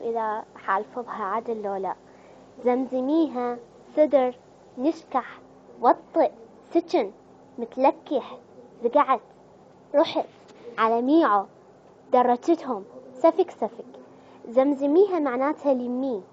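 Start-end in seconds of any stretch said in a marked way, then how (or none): 2.6-13.8 Palestinian words, each said louder and punched; a hint of Palestinian accent; Palestinian dialect. Shown as a demonstration. Vlogger unsure of Palestinian words, light Palestinian accent. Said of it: "وطبعًا هسه راح نيجي على اللهجة الفلسطينية".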